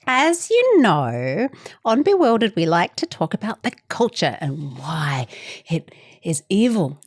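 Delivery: mock-dramatic podcast host build-up. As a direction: build it up like a sinister trailer. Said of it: "I'm creating an effect here".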